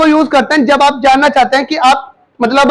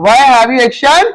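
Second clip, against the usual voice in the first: slow model phrase; 2 semitones lower, much slower than usual. Shown as a demonstration. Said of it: "very nice बेटा".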